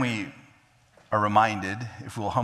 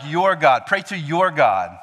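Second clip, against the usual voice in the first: louder, pushed your God; distancing Saul; 4 semitones higher, 4 dB louder than usual. Acted. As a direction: keep God at arm's length. Saul's distant phrase quoted.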